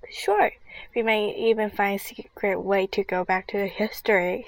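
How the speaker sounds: eager, rising voice; bursting with excitement; excited exclaim. Acted. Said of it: "she exclaimed".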